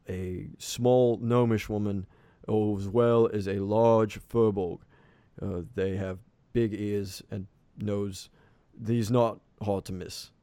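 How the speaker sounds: lightly voiced captain, slow and drawn out. Captain describes missing crew to the elder, lightly voiced slow captain. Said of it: "the captain scratches the back".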